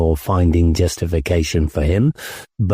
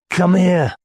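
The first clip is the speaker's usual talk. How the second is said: put-on drunk commander; 10 semitones higher than usual. A narrator's reading. Drunk commander orders narrator.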